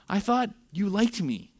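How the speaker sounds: acted hurt, voice lifted; mock hurt. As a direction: play a let-down friend complaining. Imagining Job's hurt complaint to God.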